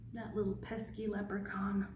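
soft grumbling whisper; hushed whisper. Real, not acted. Whispered aside.

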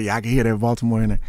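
quick, laughing retelling; laughing quote. Retold or imitated. Boxer retelling friend's teasing about a Baltimore accent, laughing. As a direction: laugh through his friend's line. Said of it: "My boy Tate was like".

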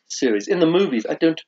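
put-on proper British accent. Host links candy to Harry Potter, British accent. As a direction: explain it as a British presenter. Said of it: "how they would mock my British accent".

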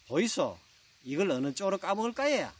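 copycat question in Gyeongsang dialect intonation; Gyeongsang bride. Acted. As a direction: imitate the Seoul bride with a Gyeongsang lilt. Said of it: "경상도 신부가 셈이 좀 나서 또 따라하죠". (경상도 억양으로 따라 묻는 신부)

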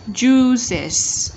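"Juices" in two syllables with hissed final S; ES ending sound. Shown as a demonstration. Teacher modelling the ES ending, carefully sounded. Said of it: "chúng ta sẽ đọc là juices".

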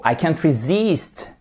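resist accentué sur -SIST, allongé; accent sur la seconde syllabe. Shown as a demonstration. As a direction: appuie sur la fin de resist. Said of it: "votre accentuation sur la seconde syllabe". (resist avec la seconde syllabe bien marquée)

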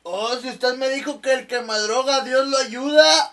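drawn-out high son; stoned son. Acted. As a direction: answer dad dopily. Son answering father.

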